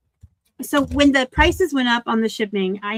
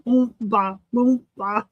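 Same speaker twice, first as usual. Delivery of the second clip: laughing; much slower than usual. Real, not acted. Laughing repeat.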